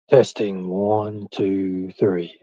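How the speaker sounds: low, soft, dropping mic test. Shown as a demonstration. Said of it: "I'll go into stages, like, volumes".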